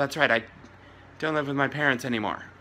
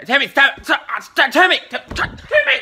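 loud, high, laughing pleas; laughing yell; 10 semitones higher, 7 dB louder than usual. Acted. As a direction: yell his name through laughter. Parent scolding child, laughing.

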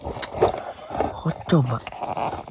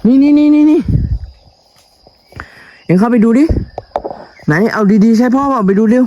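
urgent calling; 10 semitones higher, 6 dB louder than usual. Real, not acted. Urging the child to look.

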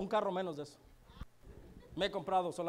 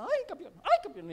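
flirty Rita; 9 semitones higher, 6 dB louder than usual. Retold or imitated.

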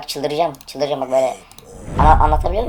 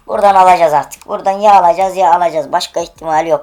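much louder, fired-up insistence; loud hype; 2 semitones higher, 7 dB louder than usual. Real, not acted. Streamer hyping himself before the final case, loud. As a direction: pump yourself up for the last case.

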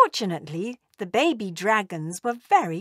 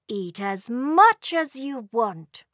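mother dragon; 2 semitones higher than usual. Acted. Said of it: "said Mummy Dragon to her little ones".

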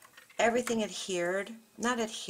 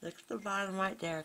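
talking around a pen held in the mouth; pen in teeth. Real, not acted. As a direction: mumble with a pen between your teeth. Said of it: "I'm talking with the pen in my mouth".

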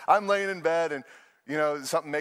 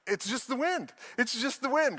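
high-pitched, breezy brush-off; mock dismissive; 7 semitones higher than usual. Preacher mocking his own nature, high and dismissive. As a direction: play waving away danger in a raised voice. Acting himself brushing off danger.

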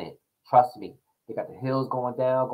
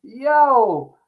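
laughing; 9 semitones higher, 5 dB louder than usual. Real, not acted. Laughing at the funny clip.

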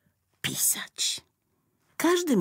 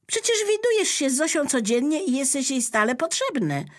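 high, fast, astonished bear; the bear wonders why the pen needs help, surprised; puzzled bear; 11 semitones higher, 5 dB louder, faster than usual. Acted. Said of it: "zdziwił się Miś".

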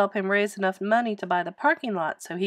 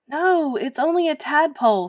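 put-on higher, louder boy's protest; pleading, high-voiced explanation; earnest boy; 7 semitones higher, 5 dB louder than usual. A narrator's reading. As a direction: correct the coach in a raised boy's voice. Boy hastily reassures panicked coach.

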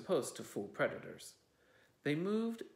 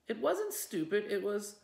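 high, loud indignant retort; angry retort; 7 semitones higher, 5 dB louder than usual. Acted. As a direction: fire it straight back. Quarrel continues.

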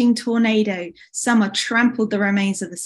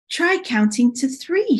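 gentle, higher-pitched suggestion; gently; 5 semitones higher than usual. Acted. Spring advises an upset Summer, gently. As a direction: offer it kindly with a lifted pitch. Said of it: "she said gently".

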